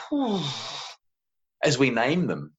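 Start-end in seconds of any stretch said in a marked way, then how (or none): 0.1-0.4 relieved whew. Retold or imitated. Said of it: "emotions just start to go".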